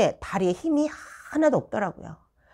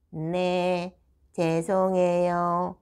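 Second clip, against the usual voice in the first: slow, toneless mimicked pupil; drawn-out monotone, no feeling at all; soulless apology; 2 semitones lower, much slower than usual. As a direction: imitate a robotic sorry. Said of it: "영혼 일도 없는 말투".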